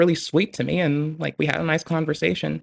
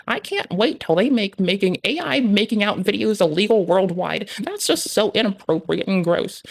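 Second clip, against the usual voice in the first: higher, prissy scolding comment voice; mock commenter; 4 semitones higher than usual. Streamer mocking his future YouTube comments, prim disapproving voice. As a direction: play the scandalized commenter. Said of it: "just be like".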